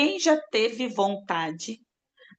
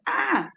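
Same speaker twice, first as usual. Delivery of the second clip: small cry; 11 semitones higher than usual. Shown as a demonstration. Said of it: "não tô falando gritar".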